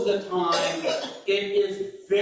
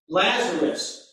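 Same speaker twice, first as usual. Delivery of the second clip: slow literal; slower than usual. Shown as a demonstration. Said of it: "is the literal for the Greek".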